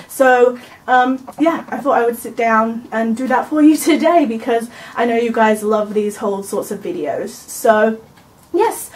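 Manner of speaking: talking while chewing gum. Real, not acted. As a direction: chew gum as you talk. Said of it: "I've gum in my mouth".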